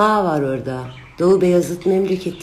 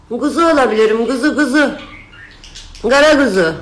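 cutesy lamb voice; 7 semitones higher, 7 dB louder than usual. Acted. Playful answer to viewers calling her ram.

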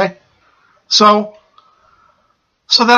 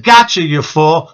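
slow demon taunt, lightly imitated; demonic voice; slower than usual. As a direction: draw out a mocking demon's jeer. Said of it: "He's laughing in this demonic voice".

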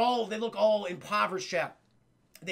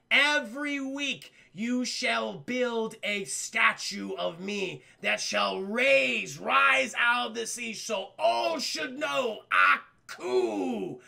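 Aku decree voice; 2 semitones higher, much slower than usual. Retold or imitated.

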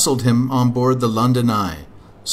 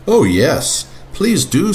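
put-on higher eager child voice; little boy voice; 5 semitones higher, 4 dB louder, slower than usual. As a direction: beg like a small boy.

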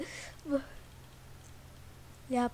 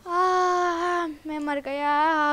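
mock dying wail; 6 dB louder, much slower than usual. Player's character has died.

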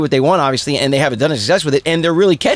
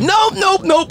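higher, firm nope; mock dad refusing; much slower than usual. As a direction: shut it off like a shocked dad. Dad ejecting the tape.

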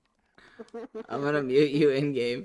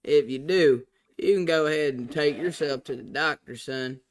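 Southern drawl. Pretend. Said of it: "talk like this for the rest of the time".

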